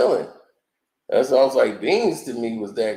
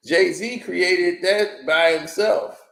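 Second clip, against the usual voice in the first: mocking Irv Gotti; 5 semitones higher, much slower than usual. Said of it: "like he said".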